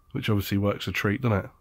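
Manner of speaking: dry, sarcastic aside. Real, not acted. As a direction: say it with heavy irony. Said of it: "I'm being sarcastic there".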